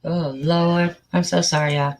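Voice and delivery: usual speaking voice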